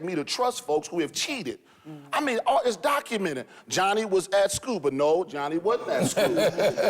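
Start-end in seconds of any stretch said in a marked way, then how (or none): 4.8-6.9 laughing while mocking the records; laughing mockery. Real, not acted. Pastor laughing at the schools' shifting attendance claims. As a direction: scoff through a chuckle at the lie.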